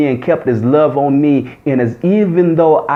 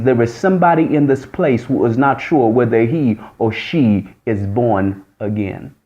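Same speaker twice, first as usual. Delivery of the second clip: solemn prophecy; 4 semitones lower than usual. Retold or imitated. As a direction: draw the last words out. Lady prophesying to congregation.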